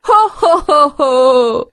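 put-on "ho-ho-ho" laugh, starting high; demonstrated laugh. Shown as a demonstration. Teacher shows children a silly laugh after a joke, ho-ho laughing. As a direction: round hooting laugh, dropping in pitch and drawn out. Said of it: "સૂચના મુજબ હસતા જઈએ".

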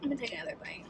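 whispered bite announcement; whispering. Real, not acted. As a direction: whisper it to the camera. Whispered aside.

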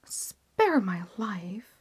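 slow, whispered plea; begging for life. Acted. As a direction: plead on your knees, barely audible. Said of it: "he cried".

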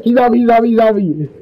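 high frantic yell; panicked shouting. Real, not acted. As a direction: panic as the killer closes in. Being chased by killer.

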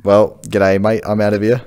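casual, low-key Australian accent; lightly played-up Australian accent. Shown as a demonstration. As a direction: show off Aussie slang in an Australian accent. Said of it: "Do you know what accent it is?".

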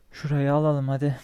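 loud push to go; rally yourself loudly; loud call. Real, not acted. Gamer urging himself to take the area, loud.

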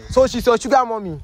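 can't believe what you just heard; shocked question. Acted. Host reacts to revelation.

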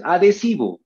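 "adhesivo" joined as a-de-si-vo; as pronounced. Shown as a demonstration. Teacher tells pupils "tal como pronuncias", "adhesivo" run together. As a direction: say "adhesivo" in one run, D going with the E. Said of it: "tal como pronuncias".

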